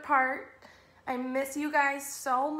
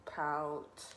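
lilting, measured storybook rhyme; children's story reading; 3 semitones lower than usual. A narrator's reading. Teacher reading a rhyming fish book to children, storytelling. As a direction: read it in bouncy verse, sinking at the end.

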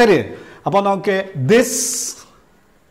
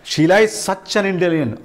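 slow example sentence; much slower than usual. Shown as a demonstration. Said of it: "അത്തരത്തിലുള്ള വളരെ നല്ല intelligent ആയ".

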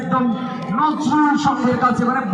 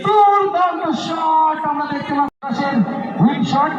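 excited commentary; 5 semitones higher, slower than usual. Real, not acted. Live penalty shootout commentary.

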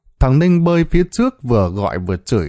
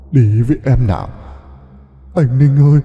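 louder, haunting drowned-ghost call; eerie ghost voice; 3 semitones higher, 4 dB louder than usual. A narrator's reading. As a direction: beckon him like a ghost from the river. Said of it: "một giọng nói ma mị". (giọng ma mị gọi người xuống sông)

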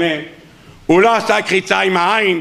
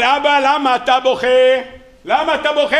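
higher, anxious son's voice; worried son; 4 semitones higher than usual. Acted. Shmuel asks his dying father why he cries, anxious and higher.

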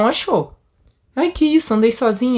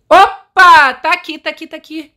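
excited; 7 semitones higher, 6 dB louder than usual. Real, not acted. Finds the tape.

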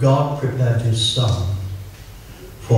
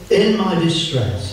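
slow, raised reading of the psalm; scripture reading; 6 semitones higher, slower than usual. Acted. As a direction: read it slowly like scripture. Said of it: "Psalm one twenty".

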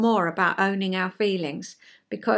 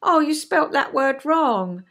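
kindly parent pointing out a slip; gently concerned parental correction; Nurturing Parent; 3 semitones higher, 3 dB louder than usual. Acted. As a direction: correct them like a caring parent. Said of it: "might say it in Nurturing Parent".

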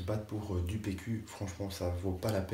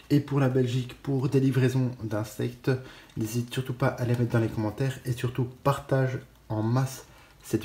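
much louder, calling out to viewers; 2 semitones higher, 8 dB louder than usual. Real, not acted. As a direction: push the request out loud. Call to share the video.

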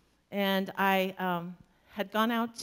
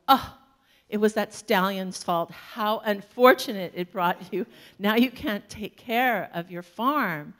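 louder, fussing village neighbors; lamenting neighbors; 5 dB louder than usual. Retold or imitated. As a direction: play the gossiping neighbors wailing over bad luck. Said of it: "and the neighbors go".

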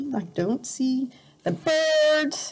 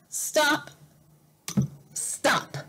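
fading whisper; 4 semitones higher, 4 dB quieter than usual. Acted. Reading to a child, the last stop whispered. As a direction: stop dropping to a soft whisper.

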